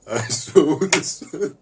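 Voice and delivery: high, loud, slow awed exclamation; stunned wonder, slow and loud. Acted. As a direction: marvel at the sun, drawn out and high. Repeats line with big delivery.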